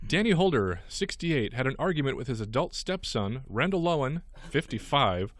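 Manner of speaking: lively news-story delivery; radio host reading a news item. Acted. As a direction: read out an odd crime story to co-hosts.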